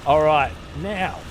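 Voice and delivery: voice cracking. Real, not acted. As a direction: voice breaking mid-phrase. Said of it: "my voice broke".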